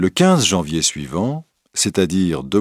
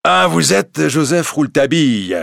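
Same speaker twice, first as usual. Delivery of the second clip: higher, louder irritated judge; furious judge; 7 semitones higher, 4 dB louder than usual. Acted. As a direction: let the anger show. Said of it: "le président était furieux".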